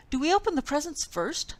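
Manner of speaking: high, fast and keen; a mouse hoping to open presents; eager question. A narrator's reading. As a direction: rush it out, can't wait. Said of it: "Mouse asked eagerly".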